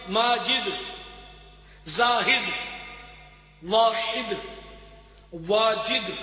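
"ماجد، زاہد، واحد، واجد" each ending with short i; careful long first vowel in "ماجد، زاہد، واحد، واجد", then i; correct pronunciation. Shown as a demonstration. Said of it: "تو یہ سب غلط ہے".

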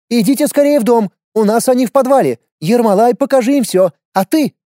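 put-on brisk, high commanding old woman; bossy grandmother. A narrator's reading. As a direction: order everyone inside. Old woman bosses everyone. (властная бабушка)

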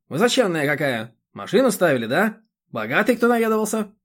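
high, loud scolding village busybody; a bossy chairwoman lecturing; indignant chairwoman. Acted. The chairwoman berates Roman about mowing, high and loud.

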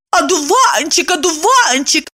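high teasing singsong; mocking. A narrator's reading. Evdokia mimics Kirillov, teasing. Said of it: "передразнила его она".

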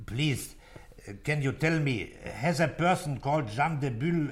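careful, foreign-sounding English on the phone; halting English. Acted. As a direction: struggle politely through English with a German accent. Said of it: "mit meinem Englisch".

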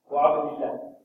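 وعبد الله with i before a thin L; light lam after kasra. Shown as a demonstration. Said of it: "إذا سبقت بفتح أو ضم".

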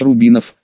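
Рубинов stressed on final -нов; stress on last syllable. Shown as a demonstration. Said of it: "с ударением на последний слог".

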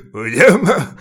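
cynical laugh. A narrator's reading. Knight interrupts the awkwardly starting conversation, cynical laugh. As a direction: cut in with a cynical cackle. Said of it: "cinikus kacsaja".

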